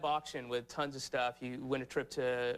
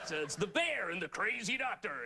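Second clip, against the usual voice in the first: mock host laughing; 4 semitones higher than usual. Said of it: "you know".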